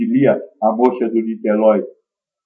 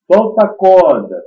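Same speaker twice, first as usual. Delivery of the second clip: lightly acted voice from above; slightly raised, higher call of an unseen voice; 4 semitones higher, 4 dB louder than usual. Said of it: "Aí ele ouviu uma voz".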